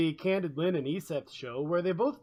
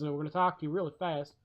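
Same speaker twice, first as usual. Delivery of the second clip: fast backwoods talk; 3 dB quieter, faster than usual. Retold or imitated. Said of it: "these people ... way back in the backwoods".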